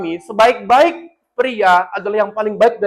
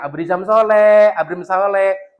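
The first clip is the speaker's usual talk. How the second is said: drawn-out gentle praise; slow affectionate naming; 3 dB louder, much slower than usual. Shown as a demonstration. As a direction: savour each word slowly.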